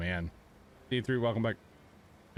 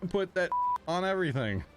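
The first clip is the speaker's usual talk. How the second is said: put-on old lady voice; 6 semitones higher than usual. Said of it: "where the old lady voice goes".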